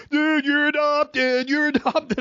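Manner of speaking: high, slow singsong jeer; mocking kid taunt. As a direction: tease him like a bratty kid on the bus. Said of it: "teammates are like".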